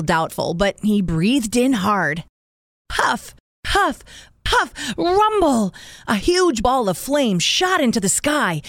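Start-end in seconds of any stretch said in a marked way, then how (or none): 2.9-5.7 high puffs ending in a rumble; puffing and rumble. A narrator's reading. Narrator voices big fire.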